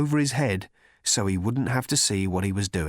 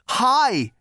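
booming god; 13 semitones higher, 5 dB louder than usual. A narrator's reading. Thor voiced.

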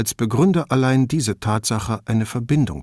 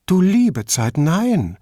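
high-pitched, amused disbelief; surprised cry; 8 semitones higher, 3 dB louder, slower than usual. A narrator's reading. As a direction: exclaim in surprise, pitch jumping up. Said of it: "rief Paula überrascht". (überraschter Ausruf)

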